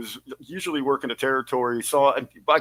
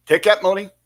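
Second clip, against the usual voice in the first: Rip's advice voice; 3 semitones higher, 4 dB louder than usual. Retold or imitated. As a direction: growl it like a grumpy old promoter. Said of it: "the advice he gave me".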